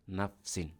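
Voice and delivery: নাফসিন ending in "-in"; jar ending. Shown as a demonstration. Teacher showing the jar form, নাফসিন with "-in". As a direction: say নাফসিন in two parts, closing on "sin". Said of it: "যদি জার হয়".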